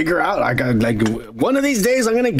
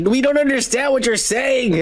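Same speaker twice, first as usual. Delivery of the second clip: mock exasperation; 7 semitones higher than usual. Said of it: "everybody was getting mad".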